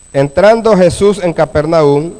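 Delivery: measured Bible reading with long pauses between phrases; scripture reading. A narrator's reading. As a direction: read the verse out phrase by phrase to a congregation. Lee el pasaje bíblico. (lectura bíblica pausada)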